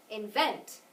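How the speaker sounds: Invent with VENT stressed; light In, strong vent in Invent; accent the second syllable of Invent. Shown as a demonstration. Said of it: "that one's on the second syllable".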